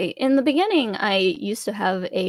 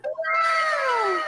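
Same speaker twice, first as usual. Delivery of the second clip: cute anime streamer. Acted. VTuber greets in character.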